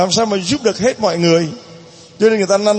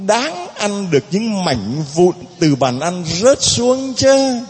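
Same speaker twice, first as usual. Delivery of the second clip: pleading mother; slower than usual. Acted. Preacher voices the pleading mother.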